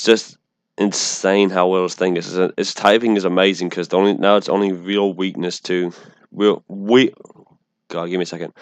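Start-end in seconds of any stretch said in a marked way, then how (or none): 3.7-7.1 "real" slips toward "weal"; says w for r. Real, not acted. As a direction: stumbles on the r in "real". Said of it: "I can't say my R's right".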